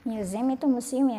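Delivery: museum said as myoo-ZEE-um; pronunciation of museum. Shown as a demonstration. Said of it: "Cara bacanya museum".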